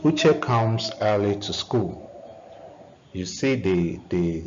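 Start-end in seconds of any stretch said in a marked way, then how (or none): 0.0-2.1 "Uche", "comes", "early" and "school" each stressed, with "to" kept light; stress on content words. Shown as a demonstration. Teacher leading the class through a sentence drill, content words stressed. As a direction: drill it with every content word hit. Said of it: "the content words stressed".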